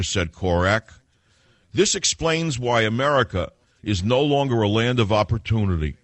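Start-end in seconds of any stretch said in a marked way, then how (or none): 1.7-6.0 mocking read-aloud. Reading out an article he scorns.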